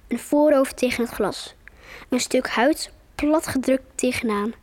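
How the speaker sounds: story reading. Acted. Child reads book chapter aloud.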